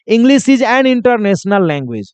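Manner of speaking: very slow, each word apart; slow teacher dictation. Shown as a demonstration. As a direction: dictate it slowly so students copy. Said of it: "उसी में एक international जोड़ दो".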